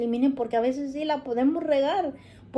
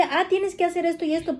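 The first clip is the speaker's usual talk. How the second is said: bossy parent order; 5 semitones higher, faster than usual. Retold or imitated. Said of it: "No decirle".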